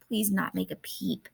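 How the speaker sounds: lilting rhyming read-aloud; teacher reading a spring poem aloud to the class. Acted. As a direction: read with a sing-song bounce.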